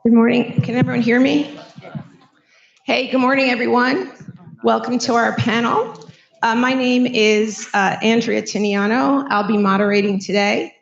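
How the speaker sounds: hoarse, scratchy throat. Real, not acted. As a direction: speak through a scratchy sore throat. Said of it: "Sorry for my scratchy voice".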